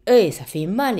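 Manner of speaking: loud, high-pitched mock yelp of complaint; pained protest. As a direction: re-enact crying out that it hurts. Retelling her protest to the anesthetist.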